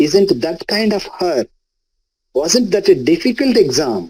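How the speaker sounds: questions falling on "her" and "exam"; rhetorical falling tone. Shown as a demonstration. Teacher demonstrating rhetorical questions, falling tone at the end. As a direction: let "her" and "exam" drop like statements. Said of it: "rhetorical questions".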